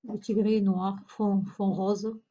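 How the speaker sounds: bute sur les mots, se reprend, lentement; bafouillage. Real, not acted. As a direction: cherche ses mots en trébuchant sur « fond ». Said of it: "je bafouille". (« fond, fond rose » bafouillé et répété)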